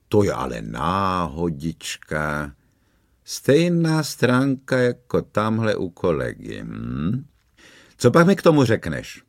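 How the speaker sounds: pomalu, posměšně předstíraný údiv; udiveně se tvařte, ale jen na oko; hraný údiv. Acted. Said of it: "v hraným údivu". (posměšný policajt hraje překvapení)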